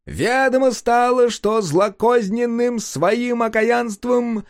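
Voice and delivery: high, slow decree reading; herald proclamation. Acted.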